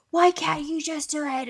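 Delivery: high-pitched exasperated plea; retold parental exasperation; mock frustration. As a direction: whine it like a fed-up parent.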